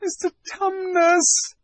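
high, drawn-out call in his ear; mock bawl. Lucy calls into the fawn's ear, mild bawl. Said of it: "bawled Lucy in his ear".

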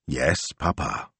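slow, weary compliance; long-suffering teenager answering her father; eye-rolling daughter. A narrator's reading. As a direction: drag it out with an eye-roll. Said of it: "rolling her eyes".

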